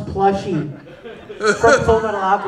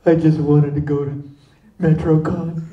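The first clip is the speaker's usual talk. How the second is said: low, mock-pitiful plea; mildly forlorn; 5 semitones lower than usual. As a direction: lightly play a stranded man pleading. Stranded man answers fireman.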